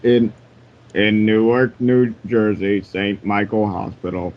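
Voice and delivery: calm sage reading with long pauses; Super Kami Guru voice. Acted. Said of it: "I will read this in my Super Kami Guru voice".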